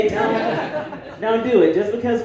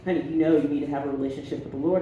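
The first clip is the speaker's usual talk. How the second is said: stern great aunt; 6 semitones lower, 7 dB quieter, faster than usual. Retold or imitated. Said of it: "And she was like".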